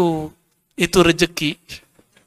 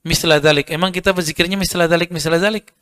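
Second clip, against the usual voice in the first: rushed repetition. Shown as a demonstration. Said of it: "Nabi ngomongnya begitu".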